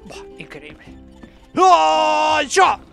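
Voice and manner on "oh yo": high, very loud drawn-out yell; long shout. Real, not acted. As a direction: holler it out mid-jump. Yells during a jump in game. (grito largo de salto)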